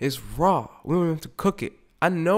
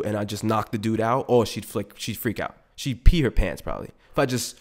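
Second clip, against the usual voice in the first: normal talking voice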